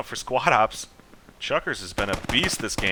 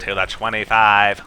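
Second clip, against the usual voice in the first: football announcer call; 6 dB louder than usual. Pretend. Mimicking football announcers after discussing them.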